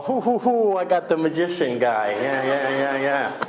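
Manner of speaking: high-pitched mocking crow; gloating kid impression. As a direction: imitate a cocky kid showing off. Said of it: "he was all".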